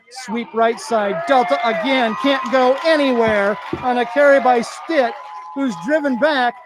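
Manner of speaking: muffled through a face mask; calling the play behind a mask. Real, not acted. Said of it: "I'm calling the game inside a mask tonight".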